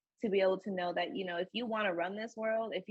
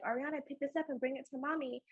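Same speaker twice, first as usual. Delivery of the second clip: put-on higher, quick, sing-song request to a toddler; lightly imitated sweet asking; coaxing mommy voice; 6 semitones higher, 3 dB quieter, faster than usual. Mom asking her two-year-old to pick something up, coaxing.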